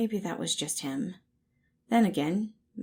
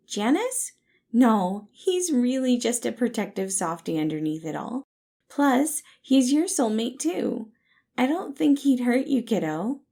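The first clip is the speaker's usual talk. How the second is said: higher and louder, bubbly; cheerful reassurance; 6 semitones higher, 8 dB louder than usual. Acted. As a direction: reassure him brightly. Patton cheerfully defending his soulmate.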